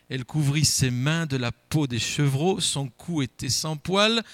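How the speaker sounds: measured Bible reading to the congregation; a preacher reads Isaac's blessing to the church, solemn and measured; scripture reading. Acted. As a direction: read the passage with solemn weight. Reads Genesis aloud in church.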